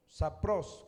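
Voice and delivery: "sapros" stressed on the final syllable. Shown as a demonstration. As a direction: say "sapros" with the accent on its O. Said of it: "con acento en la O".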